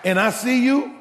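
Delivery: loud pretend confrontation over five dollars; mock indignant demand. Pastor mimicking a man chasing five dollars, loud mock demand.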